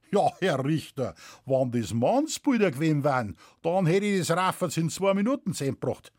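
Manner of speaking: lightly voiced rustic farmer; mildly indignant Bavarian countryman; Bavarian peasant witness, protesting. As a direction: reason with the judge in broad dialect. Witness objects to judge.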